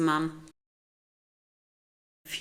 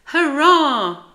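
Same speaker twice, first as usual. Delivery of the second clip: high, loud gleeful cheer; 10 semitones higher, 13 dB louder than usual. A narrator's reading. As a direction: cheer at full pelt. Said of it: "cheered Plank".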